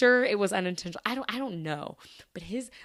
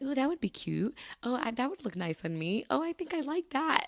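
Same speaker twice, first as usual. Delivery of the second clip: higher, light delighted musing; tempted cooing; 6 semitones higher than usual. Retold or imitated. Shopper eyeing things for herself, tempted cooing. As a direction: coo over it as if tempted.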